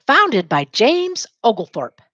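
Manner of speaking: "Founded by James Oglethorpe" said slowly, "Founded" stressed; slow model line. Shown as a demonstration. Teacher modelling a line for students to repeat, slowly. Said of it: "Say it".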